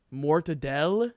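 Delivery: "Mortadelle" drawn out slowly, final vowel dropped; questioned pronunciation. Shown as a demonstration. Friend querying the Italian pronunciation, "Mortadelle" slow, clipped after the L. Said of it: "Is that the Italian pronunciation?".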